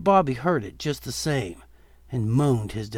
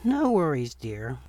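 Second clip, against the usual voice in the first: put-on smiling old lady. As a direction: reassure like a kind grandma.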